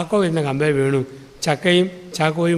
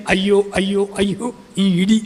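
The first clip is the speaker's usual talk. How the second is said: mock wailing wife; 4 semitones higher than usual. Preacher imitating Eliyamma wailing at the hospital, higher mock lament. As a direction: wail it out like an aunt beating her chest.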